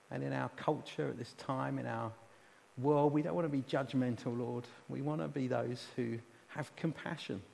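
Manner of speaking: gentle, earnest prayer in pausing phrases; intercessory prayer. Real, not acted. Preacher praying a blessing on the congregation, gentle and earnest. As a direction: ask sincerely on the people's behalf.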